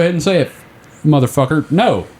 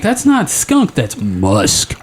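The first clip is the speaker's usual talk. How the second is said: sultry correction; much slower than usual. Retold or imitated. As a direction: flip from squeak to sultry purr. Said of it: "and I'm like".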